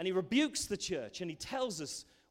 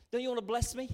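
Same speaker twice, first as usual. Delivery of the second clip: higher, mildly pleading question; pleading believer; 6 semitones higher, 4 dB louder, faster than usual. Acted. Believer asks God for blessing, mildly pleading. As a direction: lightly voice a child questioning a father.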